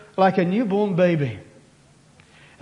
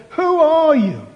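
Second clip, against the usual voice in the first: higher, louder exasperated demand; 8 semitones higher, 6 dB louder, slower than usual. Acted. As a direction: throw up your hands and bark it. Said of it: "in exasperation they said".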